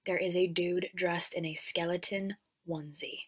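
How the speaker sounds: whispered disbelief; whispered can-you-believe-it; conspiratorial whisper. Real, not acted. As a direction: hush it like a secret. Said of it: "I shit you not".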